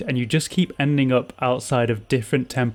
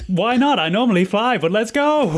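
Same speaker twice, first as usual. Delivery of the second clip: lightly voiced owl shopkeeper; 8 semitones higher than usual.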